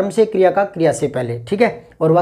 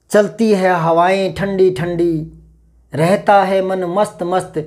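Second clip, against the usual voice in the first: poem recital; slower than usual. Shown as a demonstration. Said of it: "जैसे एक तो कविताओं में".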